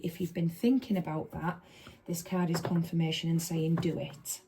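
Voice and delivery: polished, respectable reading voice; posh voice. Real, not acted. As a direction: put on a nice posh voice. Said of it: "Posh voice gone".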